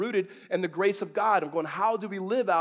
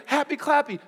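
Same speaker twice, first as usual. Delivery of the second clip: mocking tone; 7 semitones higher, 4 dB louder than usual. Real, not acted. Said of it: "not happy, clappy words".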